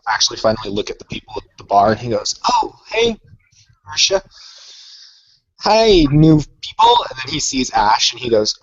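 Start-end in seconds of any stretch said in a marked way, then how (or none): 2.5-7.0 high-pitched, super happy hello; chirpy greeting in character; Jonathan's perky greeting. Acted. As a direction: greet them brightly, voice pitched way up. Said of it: "perky smile on his face".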